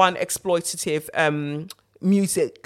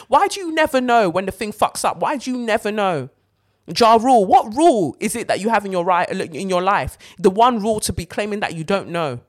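exasperated rant; 4 semitones higher, 4 dB louder than usual. Real, not acted. Ranting at a rapper.

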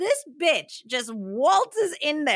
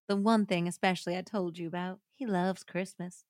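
understated, measured letter reading; 2 semitones lower than usual. Acted. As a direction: read the farewell letter aloud, gently subdued. Reads a letter aloud.

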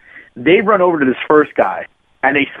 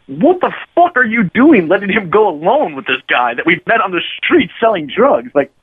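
pitched up, incredulous chewing-out; exasperated scolding; 6 semitones higher than usual. Retold or imitated. Narrator scolding his buddy Jason for letting him go, exasperated. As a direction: lay into him for being so dumb.

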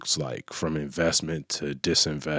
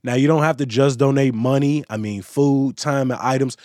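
brighter, louder news-segment voice over music; upbeat news read; 7 semitones higher, 6 dB louder than usual. Acted. Host reads the closing news roundup to listeners, upbeat radio read.

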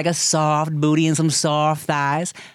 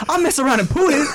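higher, laughing through it as Jamie Foxx; 10 semitones higher, faster than usual. Retold or imitated. Retelling Jamie Foxx's punchline, laughing in his voice. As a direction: giggle out the confession in a Jamie Foxx voice. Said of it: "he's like".

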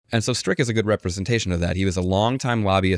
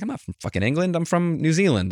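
mock indignant; 8 semitones higher than usual. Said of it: "she was mad".

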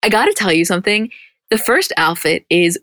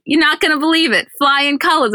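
high-pitched Brooklyn grandma impression; Brooklyn accent; 8 semitones higher than usual. Grandma announcing test result to mom and aunt, Brooklyn accent. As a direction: crow it like a proud Brooklyn grandma. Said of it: "all of your impressions are in that accent".

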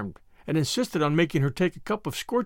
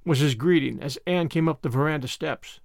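plain reading voice

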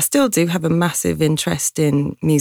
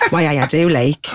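put-on Geordie accent. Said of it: "And I just went".

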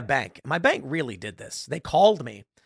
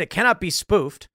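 almost indignant; 4 semitones higher, 4 dB louder than usual. Retold or imitated. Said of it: "he said, almost indignant".

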